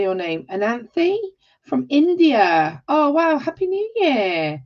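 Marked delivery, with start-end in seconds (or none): none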